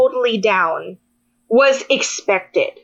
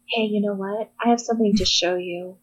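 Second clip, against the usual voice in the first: softer, lower, with something up his sleeve; low, quiet tease before the reveal; hushed teasing; 4 semitones lower, 7 dB quieter than usual. Retold or imitated. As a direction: boyfriend teasing her softly the next morning, hushed. Boyfriend's teasing morning reveal.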